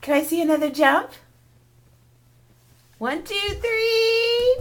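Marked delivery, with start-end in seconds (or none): 3.0-4.6 slow count. Real, not acted. Counting down a child's jump.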